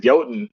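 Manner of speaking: "Jotun" said as YO-tun; mispronounced Jotun. Retold or imitated. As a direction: say "Jotun" the way he thought it's said. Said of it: "'cause I thought that's how it's pronounced".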